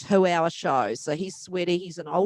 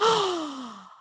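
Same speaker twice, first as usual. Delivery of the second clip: amazed fan; 11 semitones higher than usual. Retold or imitated.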